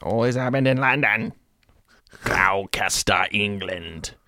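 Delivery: put-on English newsreader accent; exaggerated English accent for a news report; mock English accent. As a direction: read it out in a hammed-up English accent. Article read in put-on English voice.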